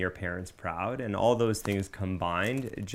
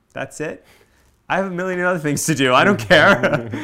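loud, high, fast mock Cuban mom accent; imitating a Cuban mom's accent, much louder and higher; 9 semitones higher, 12 dB louder than usual. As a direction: blurt it out like a busy Cuban mother. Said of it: "I use the Cuban accent".

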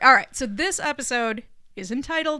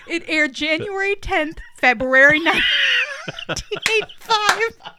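excited exclamation; 8 semitones higher, 7 dB louder than usual. Real, not acted. Catching own mistake loudly.

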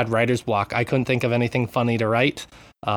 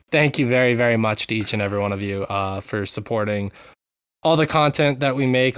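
earnest, settling lower; mean every word of the thanks; sincere thanks; 3 semitones lower than usual. Real, not acted. Host thanking patrons after the joking, sincere. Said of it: "in all sincerity".

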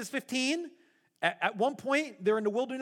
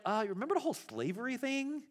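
sarcastic Moses. Retold or imitated. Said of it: "And Moses is like".

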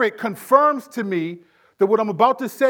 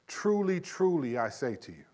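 solemn Jesus quote; 5 semitones lower, 9 dB quieter than usual. Retold or imitated. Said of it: "when Jesus would say".

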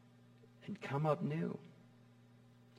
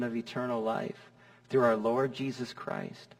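hushed graveside prayer; 3 semitones lower than usual. Retold or imitated. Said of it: "I'll read these words".

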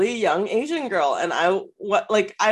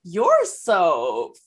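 slow, drawn-out mock flirting; lightly hammed-up admiration; over-the-top flattery; 3 semitones higher, much slower than usual.

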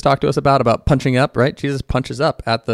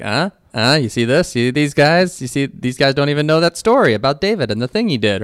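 sarcastic rib nudge; 4 semitones higher than usual. Retold or imitated. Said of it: "you gotta put it into that accent".

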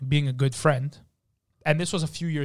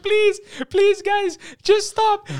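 much higher, thin pleading voice, slowing down; meek pleading Milton; 6 dB louder, much slower than usual. Retold or imitated. Gentle waiter begging the angry crew to stop, high and pleading. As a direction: beg them to stop in a tiny high voice. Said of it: "Midnight Milton's like".

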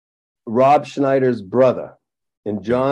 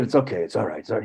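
soft, low reassurance; imitating a kind, forgiving friend, voice dropping low; super nice; 4 semitones lower, 7 dB quieter, much faster than usual. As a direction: gently let someone off the hook. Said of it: "He was super, super nice".

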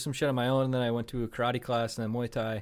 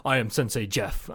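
self-styled sensei; 4 semitones lower than usual. Pretend. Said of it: "have a class and be like".

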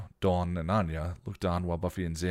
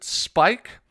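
alarmed; 10 semitones higher, 12 dB louder, slower than usual. A narrator's reading. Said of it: "Xander tried".

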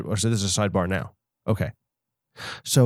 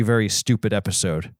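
ordinary talk

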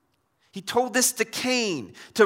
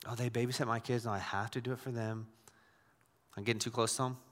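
burdened mom; 8 semitones lower, 10 dB quieter, faster than usual. Acted. Voices a guilt-driven mom.

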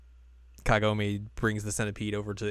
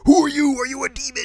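much higher, loud, suspicious villager; 9 dB louder than usual. Retold or imitated. Retelling the villager, high suspicious demand of Kagome. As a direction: squeak it out like a scared villager. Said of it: "the villager's like".

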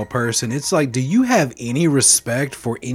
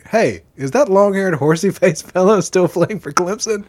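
slow, higher, deliberate quoting; quoting himself; 8 semitones higher, 4 dB louder, slower than usual. Retold or imitated. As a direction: read it out slowly like a quote. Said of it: "and I quote".

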